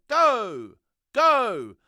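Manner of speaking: sharp, loud, high shout of go; retold jumpmaster yelling go; shouted command. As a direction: bark the order to jump. Jumpmaster ordering the jump.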